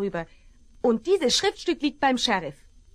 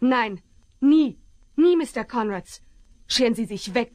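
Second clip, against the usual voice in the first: firm refusal. Acted. Woman refusing the villain.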